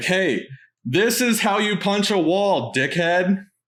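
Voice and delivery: cocky taunting yell, acted. Retelling yelling through a wall at someone on the other side; retelling a yell. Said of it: "And like yell through the wall".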